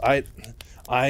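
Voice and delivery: halting false starts with a gap between; imitated stammer, unable to get going. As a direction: act out being stuck on the first word. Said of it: "he's stammering a bunch".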